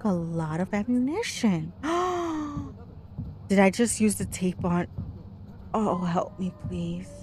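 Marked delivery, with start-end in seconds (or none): 1.8-3.4 sharp audible intake of breath; gasp. Real, not acted. Player reacting to the game, startled gasp. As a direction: gasp in dismay.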